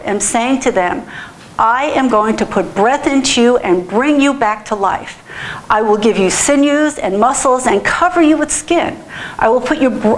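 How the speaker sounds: emphatic, measured Bible reading; scripture reading. A narrator's reading. Preacher reading the dry bones prophecy to congregation, solemn scripture reading.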